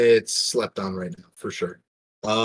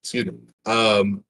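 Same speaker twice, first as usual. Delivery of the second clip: talking through hiccups; hiccuping between words. Real, not acted. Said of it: "got the hiccups".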